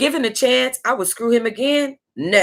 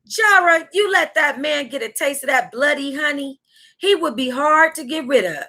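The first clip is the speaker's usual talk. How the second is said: a hint of girlfriend Lady Storm, higher; quoting her friend; 6 semitones higher than usual. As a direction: lightly voice the friend's warning. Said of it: "My girlfriend, Lady Storm, said".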